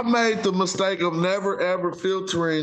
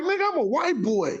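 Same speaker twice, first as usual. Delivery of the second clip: higher mock swagger of a rowdy white boy; 11 semitones higher than usual. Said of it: "go look at the rowdy white boys, be like".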